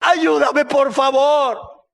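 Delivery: high, quavering desperate begging; acted sobbing plea for help; tearful pleading. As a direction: beg as a mother in tears. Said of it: "pero con lágrimas de los ojos".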